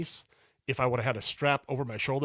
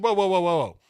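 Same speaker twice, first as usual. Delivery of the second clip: louder, higher mock-alarmed whoa; urgent retold call to halt; 6 semitones higher, 7 dB louder than usual. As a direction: replay the startled stop for the listener. Retold alarm at cart grabbed.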